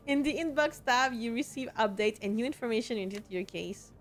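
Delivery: polite customer service voice. Shown as a demonstration. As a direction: read it like a friendly help desk. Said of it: "that's my customer service voice".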